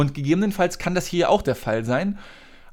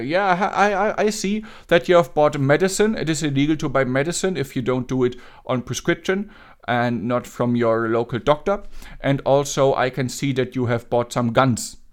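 put-on Indian accent. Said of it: "den indischen Akzent".

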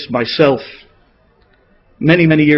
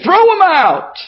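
much higher, outraged cry; indignant shout; 8 semitones higher than usual. Retold or imitated. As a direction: cry out in disgust, demanding expulsion. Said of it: "many of the Rabbanim said".

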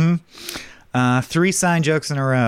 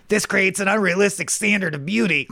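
higher, prim mock-offended; pitched-up lecturing tone; mutant quote; 6 semitones higher than usual. The sewer mutant complaining about a Barbie, high. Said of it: "The mutant holds up".

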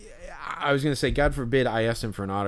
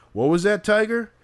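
much higher, louder mock taunt; mocking pitcher; 10 semitones higher, 6 dB louder than usual. Fan imitating a pitcher taunting a kid, mocking. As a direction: sneer it down at a kid. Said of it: "he's like".

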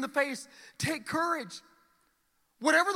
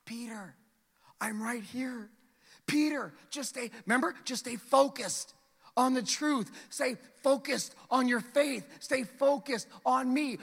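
steady a frightened friend; gentle reassurance. Acted. Jesus gently steadying Peter.

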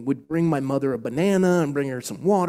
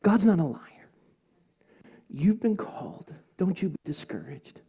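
choked up; 3 semitones higher than usual. Real, not acted. Pastor encouraging listeners after his testimony, choked up. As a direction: encourage them while holding back tears. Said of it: "I'm still choked up".

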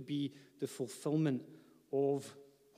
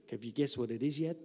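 put-on lightly done Australian accent, quick; a quick, light entertainer-style Australian twang; playful Australian accent as a passing joke; 3 semitones lower, faster than usual. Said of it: "It's my best Australian accent".

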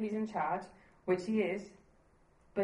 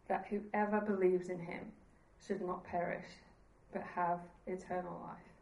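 slow reflective reread; slower than usual. Shown as a demonstration. Preacher rereading John three sixteen slowly to the congregation, tender. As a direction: let every line sink in, unhurried. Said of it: "if you listen to that again".

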